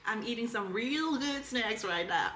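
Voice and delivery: slow, clumsy Southern drawl; attempted Southern accent. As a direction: try a Southern accent, drawn out. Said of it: "please say this in a southern accent".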